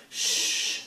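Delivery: soft unvoiced shush; quiet shushing sound. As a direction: hush him like a small child. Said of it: "she shushes me".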